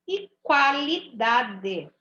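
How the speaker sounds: qualidade drawn out with a clear kw; slow teaching read. Shown as a demonstration. Teacher reading the word list to pupils, slowly. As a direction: stretch qualidade as kwa-li-da-de. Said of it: "Tá vendo como eu ouço o som do U?".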